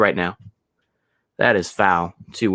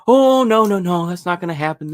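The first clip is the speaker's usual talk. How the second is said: mock dismissal; 7 semitones higher than usual. Mocking what people will say.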